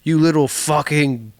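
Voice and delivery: mock cursing, stretched out; mock abuse in song. Aunt and uncle cursing Dorothy in song, mock scolding. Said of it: "they're being like".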